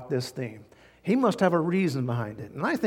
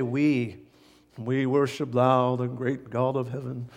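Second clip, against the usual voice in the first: formal liturgy voice; 3 semitones lower than usual. Retold or imitated. Husband's formal church tradition, solemnly intoned. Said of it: "You have to always say".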